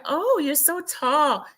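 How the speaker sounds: high, drawn-out mock gush; imitated gushing. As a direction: coo it high and slow, imitating her greeting. Acting out a gushing greeting.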